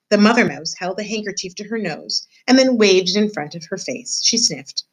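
measured read-aloud voice for a class; story narration. A narrator's reading. Teacher reading a chapter aloud to her class, storybook narration.

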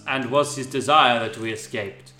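low, understated consolation; consoling Snape. Acted. Snape consoling grieving Laa-Laa, low measured voice.

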